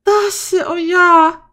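high, loud delighted squeal; high loud squeal over something cute. Real, not acted.

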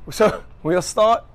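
"so we'll start" slow and broken by a laugh. Real, not acted. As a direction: giggle through "start" slowly. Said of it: "Okay, last time, let's do this".

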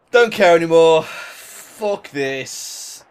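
loud, fed-up outburst; frustrated shout. Real, not acted. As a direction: throw it away in disgust. Outburst after conceding.

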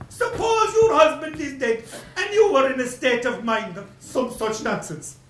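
loud sarcastic outburst; scornful shout. Acted. Creditor mocking the widow's excuse, scornful shout. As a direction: throw her excuse back in her face.

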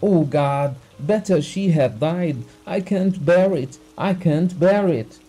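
high, loud, overwrought tirade; distraught crying out. A narrator's reading. Betrayed husband raving to the doctor about his wife, distraught cry. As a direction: rail at the betrayal, voice pushed high. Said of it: "cried Abugin, laughing, crying".

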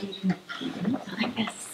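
soft unvoiced whisper. Shown as a demonstration. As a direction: drop to a whisper to show quiet. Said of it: "if at some point I get quiet".

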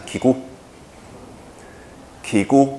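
ki gu said very slowly and drawn out, clearly spelled; slow teacher model. Shown as a demonstration. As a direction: model ki gu slowly for the class to repeat. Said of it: "念一下".

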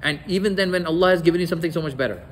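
a touch of heated jealousy, half acted; cutting taunt. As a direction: throw the line out fast and sharp. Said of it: "Then she crosses the line".

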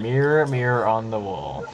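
slow, drawn-out "Mirror, mirror" with full r sounds; demonstrated pronunciation. Shown as a demonstration. Answering teasing about "mirror", slow playful pronunciation demo. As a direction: stretch each "mirror" out for show. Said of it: "you just say mirror".

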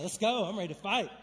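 fired up. Real, not acted. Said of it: "I get, like, fired up reading that part".

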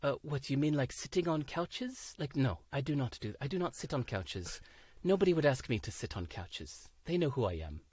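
lightly imitated French accent. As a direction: quote her with a slight French accent. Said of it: "she has this French accent".

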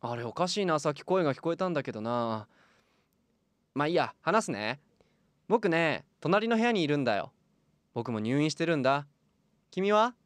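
lightly voiced young boy; a boy chatting from next room; through a wall.

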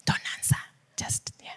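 near-whispered, very soft; hushed aside. Real, not acted. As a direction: drop to a confidential hush. Hushed aside telling listeners not to answer.

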